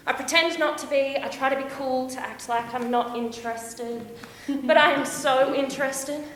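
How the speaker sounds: high, loud, eager rush of words; girlish excitement bubbling over with a laugh; giddy confession. Acted. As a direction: gush about a crush. Giddy confession about a crush.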